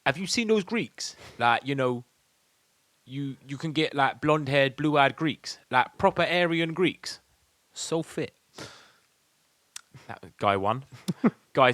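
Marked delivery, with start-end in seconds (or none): 0.1-8.3 wannabe gangster. Retold or imitated. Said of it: "hard basic roadman voices".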